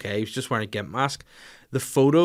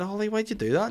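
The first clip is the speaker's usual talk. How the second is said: retold parental scolding; 10 semitones higher than usual. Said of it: "I said".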